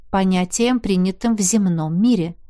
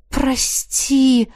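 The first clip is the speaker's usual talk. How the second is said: quick, higher blurted sorry; blurted apology; 5 semitones higher than usual. Acted. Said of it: "выпалила".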